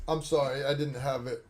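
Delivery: ordinary delivery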